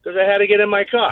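winded excuse; a little puffed from getting into the car; out of breath. Real, not acted. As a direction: explain it while short of breath. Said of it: "Why are you out of breath already?".

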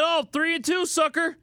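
sing-song mock gloat; mocking taunt. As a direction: taunt him like a sucker. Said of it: "I should have said".

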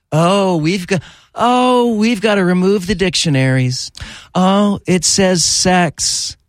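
put-on lampoon the locals in a Southern accent; mocking an Escambia County official in Southern accent. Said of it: "they talk with a Southern accent like that".

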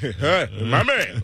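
mock Australian accent. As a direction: lightly imitate an Australian fan. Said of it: "this accent where they talk like this".

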